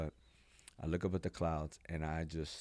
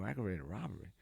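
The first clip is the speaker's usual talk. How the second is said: softer, questioning "Aggravated robbery?"; stunned disbelief; 2 semitones higher, 5 dB quieter than usual. Retold or imitated. Him caught off guard by the feds, stunned and soft. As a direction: repeat it in disbelief.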